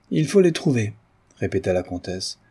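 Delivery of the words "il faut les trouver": high-pitched, emphatic insistence; insistent countess. A narrator's reading. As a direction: press the demand with indignation. Countess insists on finding them. (insistance indignée de comtesse)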